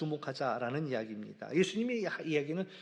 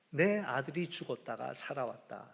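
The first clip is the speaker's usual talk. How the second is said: father crying out his joy, partly raised; half-shouted rejoicing, swelling on the middle line; retold joyful shout; 6 dB louder than usual. Father shouting to the village that his lost son is found, rising joyful call. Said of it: "소리치고 있다".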